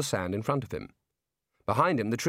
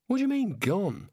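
put-on Australian girl voice; 8 semitones higher than usual. Neelet's lines in the story.

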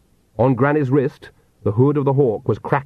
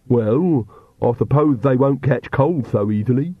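Igor voice. Acted.

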